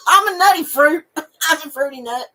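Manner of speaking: giggling through the joke; words bubbling with real laughter; laughing through it. Real, not acted. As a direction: say it while cracking up. Joking about fruits and nuts.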